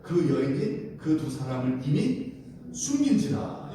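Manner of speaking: slow, measured verse reading; scripture reading. Acted. Preacher reads the Bible verse to the congregation, slow and measured. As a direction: read the verse out slowly for all to follow.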